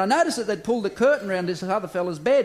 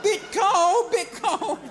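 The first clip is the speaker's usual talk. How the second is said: much higher, mumbled through clenched teeth; wired-jaw patient; 13 semitones higher, much slower than usual. Acted. Patient complains to the doctor, mumbled high whine.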